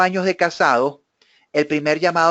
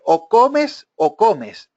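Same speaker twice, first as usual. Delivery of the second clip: stern ultimatum; 4 semitones higher, much slower than usual. Retold or imitated. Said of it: "le dice".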